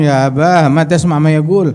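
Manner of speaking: urgent, exasperated appeal, acted lightly; indignant son. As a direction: protest to your father, voice pushed up. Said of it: "anaknya nggak kuat".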